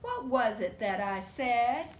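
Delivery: slow, loud pointed question; slow stern mother; stern mama. Acted. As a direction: ask it slowly like a knowing mom. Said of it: "Mama raises an eyebrow".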